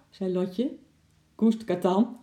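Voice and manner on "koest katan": raised, higher-pitched command; called command. A narrator's reading. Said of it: "riep vader".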